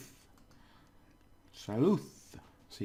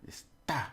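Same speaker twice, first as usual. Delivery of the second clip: "está" with weight on "tá"; stress on final syllable; 3 semitones higher than usual. Shown as a demonstration. Teacher repeating the word for it is, stress on final syllable. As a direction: jab the "tá" in "está". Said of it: "like a little stabbing at the end".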